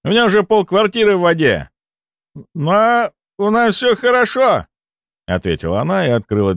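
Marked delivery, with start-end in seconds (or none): 0.0-1.7 shouting. A narrator's reading. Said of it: "прокричал я". 2.5-4.7 woman behind door. A narrator's reading. Woman answering door, high voice.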